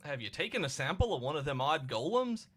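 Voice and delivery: lightly lilting Cockney game character; put-on Cockney accent. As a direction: read it as a Cockney trader. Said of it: "I'm not gonna do my accent".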